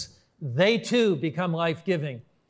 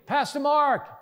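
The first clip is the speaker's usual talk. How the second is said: calling up from the balcony, high-pitched; retold yell of "Pastor Mark!"; 8 semitones higher than usual. Producer calling down from the balcony, high yell. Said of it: "he yelled down at me".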